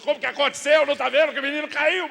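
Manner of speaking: loud, high outburst for all the world to hear; exasperated shout. Acted. Dad wanting to scream at wife's question, exasperated yell. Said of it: "Eu tô querendo gritar pra Deus e o mundo".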